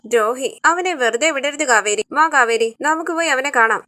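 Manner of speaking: heated outburst pushing her to act; angry urging. Acted. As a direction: stir her up to go confront him. Angry brother urges confronting Nivin.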